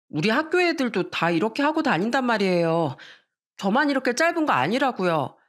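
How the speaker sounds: protesting daughter. Acted.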